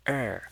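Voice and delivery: er falling from high; fourth tone. Shown as a demonstration. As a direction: drop "er" sharply downward. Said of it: "this has a fourth tone".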